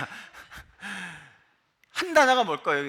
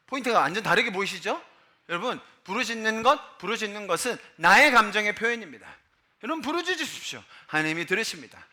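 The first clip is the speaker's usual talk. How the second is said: ordinary delivery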